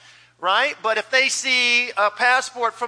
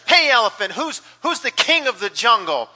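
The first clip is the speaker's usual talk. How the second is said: bossy lion; 3 semitones higher, 4 dB louder than usual. Acted. Lion bullies elephant.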